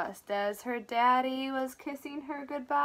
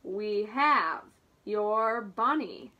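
man's voice on phone; 4 semitones lower, 3 dB louder, slower than usual. Acted. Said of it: "said a man's voice".

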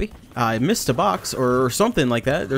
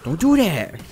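excited shout; 4 semitones higher, 4 dB louder, slower than usual. Real, not acted. Gaming excitement yelling at character.

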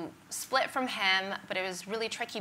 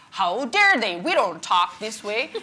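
mock indignant; 7 dB louder, slower than usual. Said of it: "I'd be like".

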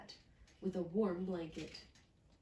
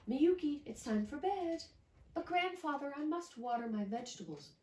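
put-on grandfather then child; 7 semitones higher than usual.

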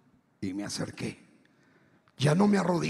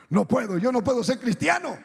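insistent refusal; 4 semitones higher, 3 dB louder than usual. Retold or imitated. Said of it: "Y yo ese día dije".

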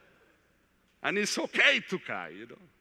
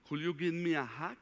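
repeated softer, almost faded away; fading plea; 3 semitones lower, 8 dB quieter than usual. Retold or imitated. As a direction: let the repeat sink, barely above a breath. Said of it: "And she told me".

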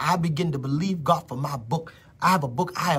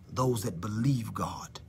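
slow, soft whisper; hushed whisper; 7 semitones lower, 7 dB quieter, slower than usual. Real, not acted. Preacher whispering to believers. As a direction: breathe it out slowly.

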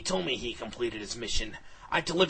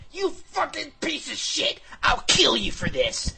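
high-pitched furious yelling; angry yell; 12 semitones higher, 4 dB louder than usual. A narrator's reading. Paralyzed hero yelling at the villain, angry yell. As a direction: yell it in helpless rage, voice pitched up. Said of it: "I yelled".

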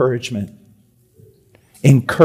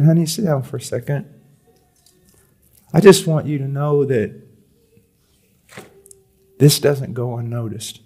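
tender husband. Pretend. Husband voiced thanking wife.

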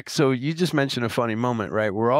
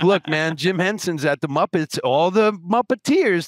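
excited pep talk; 7 semitones higher than usual. Retold or imitated. Pep-talking coworkers into voicing.

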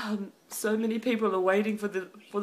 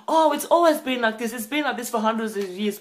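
hint of a dismissive scoffer, first words louder; mocking scoffer; 5 dB louder than usual. Preacher mimics scoffers doubting the rapture, lightly mocking. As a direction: toss it off like a doubter brushing it aside. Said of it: "some of you scoffers and mockers".

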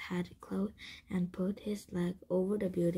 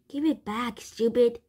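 loud, higher, exasperated outburst; angry demand; 4 semitones higher, 8 dB louder than usual. A narrator's reading. Jack in a tug of war with the camel, angry demand. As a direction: demand it back, louder on the insult.

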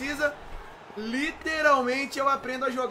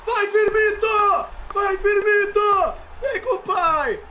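loud hype shouting; excited cheering; 8 semitones higher, 5 dB louder, slower than usual. Real, not acted. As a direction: cheer the striker on. Cheering on a goal attempt.

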